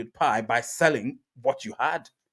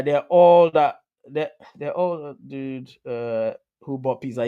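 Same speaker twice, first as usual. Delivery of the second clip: quoting a commenter; slower than usual. Retold or imitated. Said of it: "you've got Mood saying".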